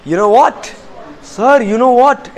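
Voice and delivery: eager, surprised telling of news; lively "guess what" to the teacher; excited surprise. Shown as a demonstration. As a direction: say it like you can't wait to share. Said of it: "ऐसा बोलो मेरी तरह".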